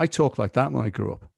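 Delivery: light northern Liverpool accent; mild Liverpool accent. Shown as a demonstration. Actor showing how he talked growing up, mild Liverpool accent. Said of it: "very mild Liverpool accent like that".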